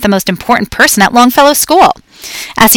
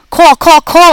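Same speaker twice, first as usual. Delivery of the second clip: high, squeaking hamster voice; squeaky; 9 semitones higher, 5 dB louder, slower than usual. A narrator's reading. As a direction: squeak each call out high. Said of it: "I squeaked".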